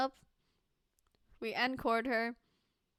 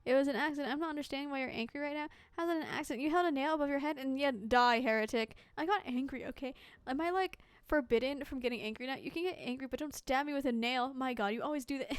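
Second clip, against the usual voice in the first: mock quarrel; 3 semitones higher, 4 dB louder, faster than usual. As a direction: bicker like an offended friend. Acted quarrel over nail.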